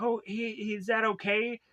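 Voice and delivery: high-pitched worried question; lightly acted anxious check; mock concern. Emily worries about his wound.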